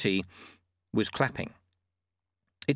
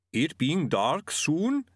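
bigfoot; 6 semitones higher, much slower than usual. Acted. Yeti speaks slowly.

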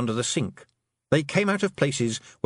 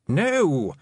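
alarmed shout; 7 semitones higher, 4 dB louder than usual. A narrator's reading. Toad stops her pouring.

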